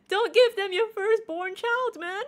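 high, loud, laughing outburst; loud and high, breaking into laughter; amused protest. Real, not acted. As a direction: protest through rising laughter. Reacting, laughing at chat's demands.

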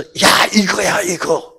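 loud, high cry of discovery; a sudden thrilled 'this is it!'; excited realization. Retold or imitated. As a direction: shout out the eureka moment.

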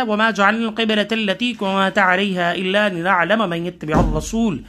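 measured, chanted tajweed recitation; chanted Quran verse for students. Shown as a demonstration. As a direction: recite it like a qari, steady and melodic.

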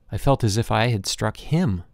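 plain reading voice

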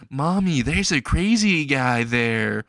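lightly voiced child, slow and drawn out; a hint of a kid telling Mommy; little kid. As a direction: point it out like a small child. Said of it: "and the kid says".

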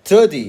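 put-on teaching a kid the th in thirty; English pronunciation demo. Shown as a demonstration. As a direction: show the child how to say thirty, tongue between teeth. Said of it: "แลบลิ้นออกมา".

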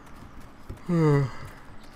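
long wordless yawn; open-mouthed yawn. Real, not acted. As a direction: let out a big breathy yawn. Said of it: "sorry about yawning".

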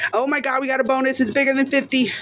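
real thrill at a lucky find; excited. Real, not acted. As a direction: blurt the good news out, excited. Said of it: "I'm so excited".

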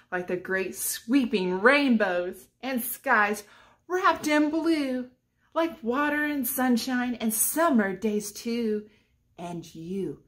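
sing-song picture book reading; reading to children. Acted. Teacher reads a rhyming book to children, sing-song. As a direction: read the rhyme aloud to the kids.

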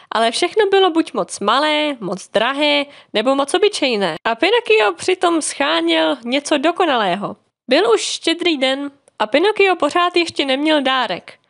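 usual speaking voice

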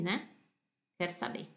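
soft unvoiced whisper. Real, not acted. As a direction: whisper it like a little secret. Teacher asks students' bedtime.

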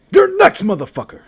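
sudden high yelled taunt; angry taunt. Real, not acted. Streamer yelling a taunt at his next opponent, loud and high. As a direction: bark it at your next opponent.

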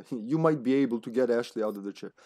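second try at a lightly put-on informant voice; letter writer's voice. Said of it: "I don't know which voice to give him".

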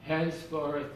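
slow, loud, solemn pronouncement; retold abbot, ceremonial and loud. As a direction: intone it like an abbot at the altar. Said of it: "I remember him saying".

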